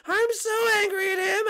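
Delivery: tearful, worked-up exasperation; whining anger. Acted. Peach worked up over Mario, wailing anger. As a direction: let the anger rise into a wail. Raised take after low one.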